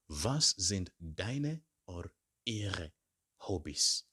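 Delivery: Was sind deine or ihre Hobbys said slowly; slow teacher drill; slow model phrase. Shown as a demonstration. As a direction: spell it out slowly for the class. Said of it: "Now you're saying for plural".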